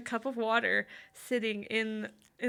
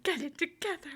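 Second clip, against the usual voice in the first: mock Kirk; 8 semitones higher than usual. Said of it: "Just like".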